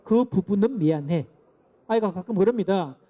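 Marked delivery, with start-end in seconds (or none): 0.0-1.3 "그 부분은 미안해" said slowly, weighing each word; slow demo apology. Shown as a demonstration. Lecturer repeating the apology line slowly. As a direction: show the nuance, slowly. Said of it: "이건 전체가 되는 거고요".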